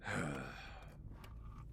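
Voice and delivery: soft, low-volume exhale; reflective sigh. Acted. Man about to recall his father, reflective sigh. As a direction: sigh softly before confiding.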